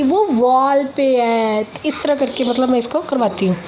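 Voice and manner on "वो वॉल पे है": put-on very slow toddler answer; imitating the toddler. Mother imitates daughter answering where the lizard is, very slow and childlike. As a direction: draw out each word like a small child. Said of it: "फिर वो बताती".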